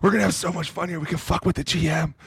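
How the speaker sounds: high, laughing thrilled gush; giddy excitement. Retold or imitated. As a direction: gush like a kid let in on a prank.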